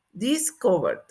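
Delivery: DISCOVERED with D right after R. Shown as a demonstration. Teacher modelling the past, -ed as D. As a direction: close DISCOVERED without an extra syllable. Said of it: "Con D".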